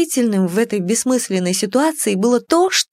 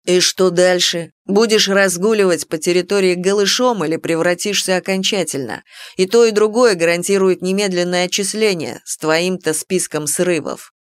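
smug. Acted. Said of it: "довольно проговорил Рэндом".

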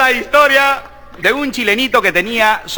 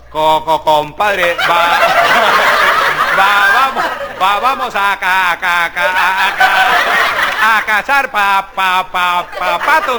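stammering compadre, low and halting; stuttering; 3 semitones lower, slower than usual. Acted. One stutterer inviting another to hunt ducks, stammering. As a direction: trip over every first syllable. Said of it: "Un tartamudo le dice a otro".

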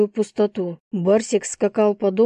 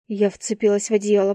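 usual speaking voice

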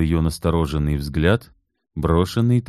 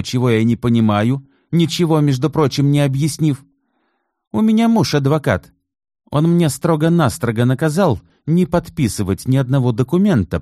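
heated tirade; 9 semitones higher, 4 dB louder than usual. Acted. Natalya's heated defensive tirade.

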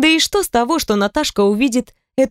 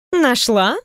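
недоверчивое переспрашивание с подъёмом; спроси с сомнением в голосе; недоверчиво; 3 semitones higher than usual. Acted. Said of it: "недоверчиво поглядела". (подруга недоверчиво переспрашивает)

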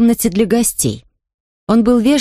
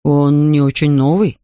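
slow, lower father remark; rash Mr Brown; 5 semitones lower than usual. Acted. Father remarks on the old camera, slow and low. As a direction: blurt it out unwisely. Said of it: "заметил мистер Браун опрометчиво".

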